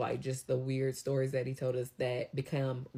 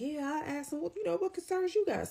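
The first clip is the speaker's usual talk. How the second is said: leasing office man; 13 semitones higher than usual. Retold or imitated. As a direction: fire back the question like a brash office worker. Coworker repeating office man.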